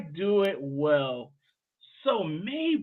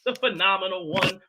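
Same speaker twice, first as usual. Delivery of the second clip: hype introduction. Pretend. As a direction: build up a grand guest intro. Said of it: "trying to bring the energy".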